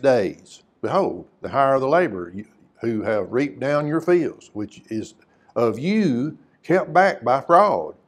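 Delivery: measured, solemn reading of the verses; scripture reading. Acted. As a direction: read it out like holy writ to the congregation. Preacher reads scripture passage aloud.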